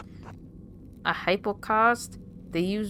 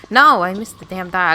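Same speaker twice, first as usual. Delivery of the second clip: loud exasperated outburst; frustrated shout; 12 dB louder than usual. Real, not acted. Player cursing a missed roll, loud frustrated shout. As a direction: yell it at the failed roll.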